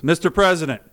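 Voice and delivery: mock floor-speech address; senator addressing the chair. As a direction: imitate a senator seeking recognition. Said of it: "So he stands up, says".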